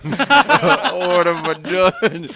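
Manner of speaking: high, loud, drawn-out mock wail; hammed-up despair of a guilty driver. Storyteller mimics the tanker driver outside his wreck, mock despair.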